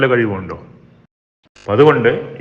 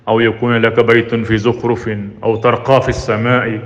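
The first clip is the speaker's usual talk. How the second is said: slow measured Arabic recitation; Quran recitation; much slower than usual. Acted. Preacher intoning the prayer to the congregation, slow recitation. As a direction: intone the verse slowly.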